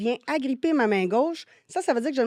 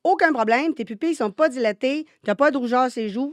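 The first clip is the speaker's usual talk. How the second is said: 1 mock reassuring; 3 semitones higher, 6 dB louder than usual.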